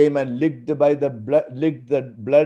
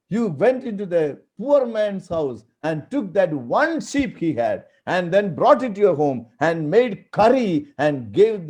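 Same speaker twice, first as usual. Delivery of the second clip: accusing prophet; 3 semitones higher, 4 dB louder than usual. Acted. Prophet Nathan confronts King David.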